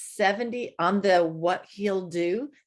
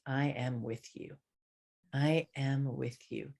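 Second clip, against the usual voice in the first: softer, lower, measured reassurance; 4 semitones lower, 6 dB quieter than usual. Acted. God answering fear with his presence, soft reassurance. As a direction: say it gently and low, letting it settle.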